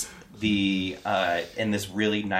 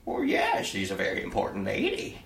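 servant voice. Acted.

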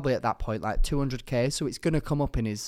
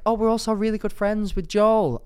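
high, loud mock Newcastle accent; attempted Newcastle accent; 10 semitones higher, 6 dB louder than usual. Friends from Newcastle boasting about Joel, attempted Newcastle accent. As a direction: play the chatty Newcastle friends, voice raised. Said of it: "that's my attempt at a Newcastle accent".

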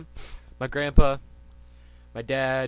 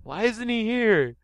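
a flustered scientist knocked over, squeaking; Professor Sycamore voice; 4 semitones higher, much slower than usual. Acted. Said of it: "Hi, I'm Professor Sycamore".

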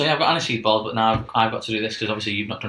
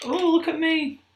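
mock judgy voice. Mocking the reviewer's voice.

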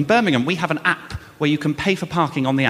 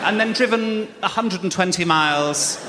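slow, laughing disbelief, spelling it out; laughing exasperation; 3 semitones higher than usual. Retold or imitated. To the parking officer, a laughing, incredulous rebuttal. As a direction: lay out the absurd logic through laughter.

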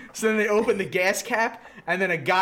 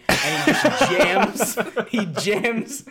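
laughing; 2 semitones higher, much slower than usual. Real, not acted. Laughing while telling.

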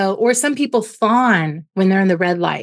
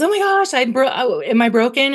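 put-on scared child; 4 semitones higher than usual. Child voiced in parent analogy.

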